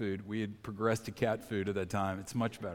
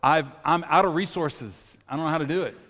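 mock panic; 3 semitones higher, 6 dB louder than usual. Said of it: "you see the panic in her".

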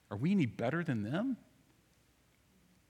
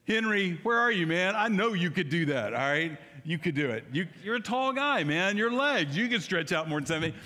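calling out; 5 semitones higher, 4 dB louder than usual. Real, not acted. Calling out to a congregant.

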